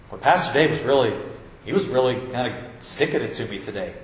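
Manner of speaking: low, lightly voiced grumble of a churchgoer; mock a churchgoer muttering he got preached at; grumbling churchgoer. Churchgoer complaining about Pastor Dave, low mock grumble.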